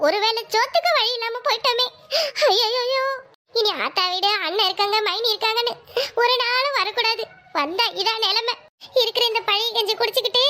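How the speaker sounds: a hammed-up wailing lament, lightly done; mock lament. Sister wails in the house over cold porridge, mock lament. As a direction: moan your fate like a mourner, half in jest. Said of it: "நடு வீட்டுல கிடந்து ஒப்பாரி வைக்கிற".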